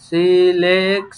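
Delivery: সিলেক্ট said slowly as si-lek; slow model word. Shown as a demonstration. Teacher modelling syllables slowly. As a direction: drag out সিলেক্ট for learners. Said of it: "সিলেক্ট, সিলেক্ট".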